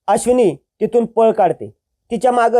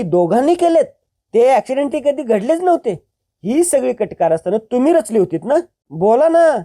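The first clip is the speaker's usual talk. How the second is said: high-pitched, furious confrontation; angry accusation; 4 semitones higher than usual. Acted. Girl accusing her scheming sister-in-law, furious and high. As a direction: spit out the accusation at the traitors.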